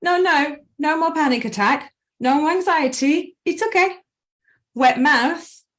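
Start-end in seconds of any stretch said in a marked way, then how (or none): 0.0-4.0 high, sing-song whoa whoa calming-down voice; playful high reassurance to a panicking mind; soothing inner voice. Retold or imitated. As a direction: talk your own panic down like a brain hitting the brakes. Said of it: "it sends a signal to your brain to say".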